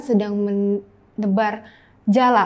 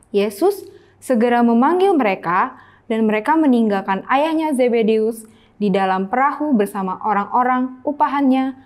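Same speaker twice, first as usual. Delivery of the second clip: Bible reading aloud. Shown as a demonstration. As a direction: clear reading to children. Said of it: "Kakak bacakan ya". (membacakan Alkitab untuk anak-anak)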